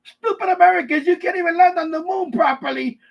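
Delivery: hammed-up scornful mockery; mocking foreigners. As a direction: sneer it like the world laughing at you. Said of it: "They're probably laughing at us right now".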